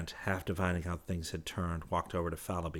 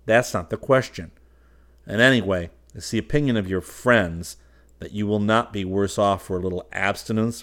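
scolding; 2 semitones higher, 11 dB louder than usual. Acted. Trent scolding Fallowby.

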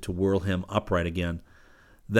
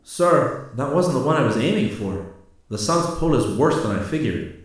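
rueful; 5 semitones higher, 4 dB louder than usual. A narrator's reading. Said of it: "The corporal's reply was rueful".

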